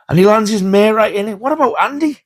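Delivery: squeaky laughing retelling of the scene; laughing so hard the voice goes up high. Real, not acted. Telling viewers the funniest bit, laughing high.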